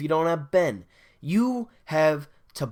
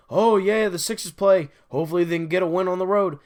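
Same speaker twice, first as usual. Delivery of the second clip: higher, louder, sing-song mock optimism, then rushing fast; mock hopeful; 4 semitones higher, 5 dB louder, faster than usual. Fan mocking his own nightly hopes, in a mock cheerful chirp. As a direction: parody the naive fan's hopeful chirp.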